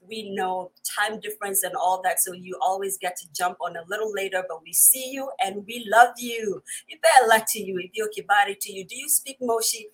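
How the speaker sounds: ordinary delivery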